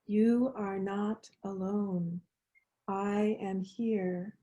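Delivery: hushed and slow, like a faint echo; soft echo. Shown as a demonstration. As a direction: let it drift in softly, barely heard. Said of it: "You can hear the echo if you listen closely".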